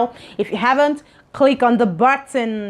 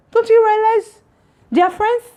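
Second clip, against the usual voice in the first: incredulous, laughing scold; 11 semitones higher, 4 dB louder than usual. Real, not acted. Scolding viewers for rudeness.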